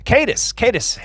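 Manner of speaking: playful southern accent, pitched high; light put-on southern accent. Shown as a demonstration. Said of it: "I like to say it with a southern answer, a-, accent".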